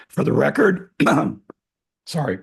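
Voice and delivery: hoarse sore-throat voice; first words through a sore throat. Real, not acted. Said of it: "I have a bit of sore throat".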